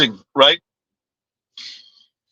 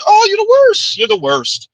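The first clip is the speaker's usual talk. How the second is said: exasperated outburst. Real, not acted. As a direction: burst out in mock exasperation. Ranting at women with attitude.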